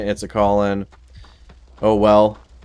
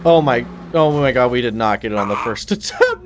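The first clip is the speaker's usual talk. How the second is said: laughing frustration; 3 semitones higher than usual. Real, not acted. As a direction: laugh through the failure. Fails the mission at once.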